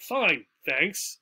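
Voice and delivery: "Fine, thanks" said straight, ending on "thanks"; simple reply with no special stress; straight, stopping tune. Shown as a demonstration. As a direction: keep "thanks" even and let it stop. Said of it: "So just pretty straight".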